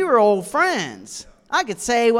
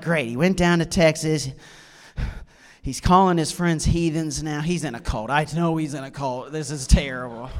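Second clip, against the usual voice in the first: lightly voiced, lower worried mother; mortified mom; 5 semitones lower, 4 dB quieter than usual. A hint of mom fretting to herself about her son's cult. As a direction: mutter like a dismayed mom. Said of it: "she was mortified".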